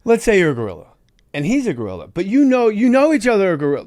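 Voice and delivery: high, loud director impression; batshit crazy auteur. Director coaching an actor about gorillas, batshit crazy auteur. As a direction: pitch a mad idea with rising zeal. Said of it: "looking like a batshit crazy auteur".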